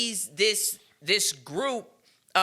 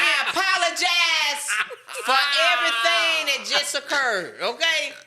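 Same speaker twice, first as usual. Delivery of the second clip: laughing; 4 semitones higher, 3 dB louder than usual. Real, not acted. Mock apology after the accent.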